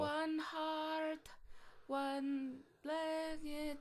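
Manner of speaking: put-on Jamaican accent. A reggae singer joke voice.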